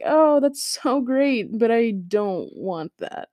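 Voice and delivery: a touch of sarcasm, stretched out; mock enthusiasm. Student answering the teacher, mildly sarcastic.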